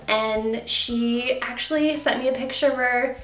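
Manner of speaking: breathless mid-sentence; short of air, pushing through; out of breath. Real, not acted. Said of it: "I'm out of breath".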